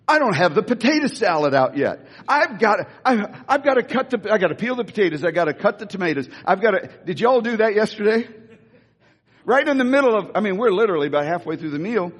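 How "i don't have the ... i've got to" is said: a mildly frantic, hurried list; frantic rush. Acted. Martha fretting over the unfinished meal, mildly frantic. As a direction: play Martha rushing through her chores. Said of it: "she is frantic now".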